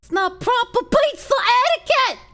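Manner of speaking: loud, high New York accent, mocking the clip. Streamer mimicking a video guy in a New York accent. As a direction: bark it like a Queens pizza guy. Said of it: "I'm playing New York accent".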